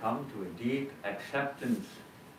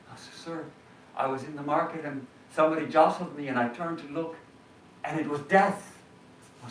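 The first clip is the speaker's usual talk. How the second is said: breathless, higher pleading servant; frightened servant; 4 semitones higher, 3 dB louder than usual. Acted. Servant begging his master in terror, higher pitched. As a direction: beg the master, scared for his life.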